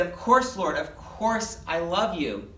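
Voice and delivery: acted upset, emphatic on "course"; pretty upset. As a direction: protest it as if hurt at being asked. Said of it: "Peter was pretty upset".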